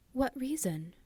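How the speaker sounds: high, frightened question. Acted. Evelyn to her uncle, frightened. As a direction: ask with sudden alarm. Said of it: "asked Evelyn in a frightened voice".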